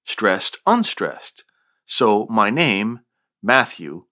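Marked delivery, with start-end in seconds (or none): 0.1-1.4 "stressed" then "unstressed" as two separate beats; trochee pattern. Shown as a demonstration. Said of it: "with the opposite stress pattern". 3.4-4.1 "Matthew" with the weight on "Matt"; trochee stress. Shown as a demonstration. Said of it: "is a trochee".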